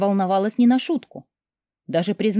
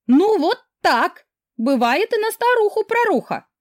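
put-on drunk fatalism; 12 semitones higher, 4 dB louder than usual. Drunk friend brushes off question.

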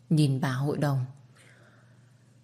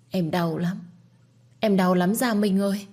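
anguished cry; 3 semitones higher than usual. Acted. Miscarried wife cries out.

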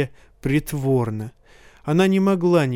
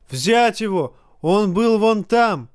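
furious order; 6 semitones higher than usual. A narrator's reading. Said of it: "Джофри указал на крышу".

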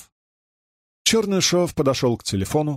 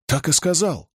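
indignant; 5 semitones higher than usual. Acted. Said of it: "возмутился он".

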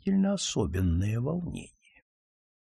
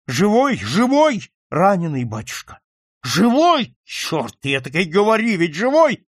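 frantic questioning; 5 semitones higher, 5 dB louder than usual. Acted. Count frantically asks if alive.

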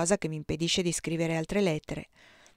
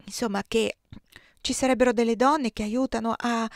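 hesitant; 2 semitones higher than usual. Acted. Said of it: "dissi esitante".

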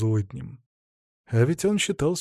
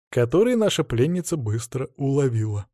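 ordinary delivery, nothing marked

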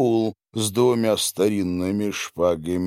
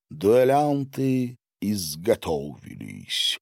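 plain reading voice

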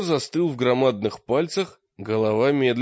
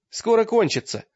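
quick high call; hurried shout; 9 semitones higher, 3 dB louder than usual. A narrator's reading. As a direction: shout it fast. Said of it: "крикнул Таргитай торопливо".

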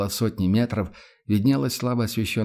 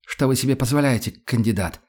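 stern officer's rebuke; commanding tone; 3 semitones higher than usual. Acted. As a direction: dress him down like a superior. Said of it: "командным тоном".

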